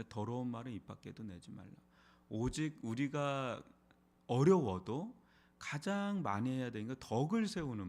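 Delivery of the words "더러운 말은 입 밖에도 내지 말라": 더러운 말은 repeated quickly and softer; a brisk, quieter restatement of 더러운 말은; quick recap. Shown as a demonstration. Pastor restating the verse to the congregation, quick and softer. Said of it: "무릇 더러운 말은".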